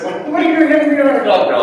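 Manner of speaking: surprised question. Retold or imitated. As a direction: lightly play your puzzled younger self. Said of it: "I said".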